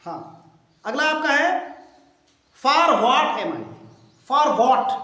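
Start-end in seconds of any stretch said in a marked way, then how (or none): 2.6-5.0 slowly, each word spaced out; teacher spelling out the question slowly for the class; slow model reading. Shown as a demonstration. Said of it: "teacher models the question slowly".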